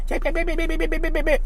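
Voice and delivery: very high, tiny yapping dog voice; chihuahua yapping. Retold or imitated. Mocking a narcissist as a chihuahua, very high yapping. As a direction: yap like a little chihuahua. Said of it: "like a little chihuahua".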